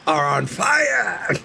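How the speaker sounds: drawn-out taunting yell; slow mock shout. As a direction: stretch it out like a schoolyard taunt. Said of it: "He said".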